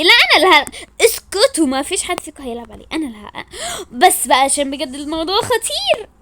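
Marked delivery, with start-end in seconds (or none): 0.0-0.7 giggling, loud "me first"; playful laughing squabble; laughing protest. Acted. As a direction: fight for the computer while laughing. Kids squabble over computer.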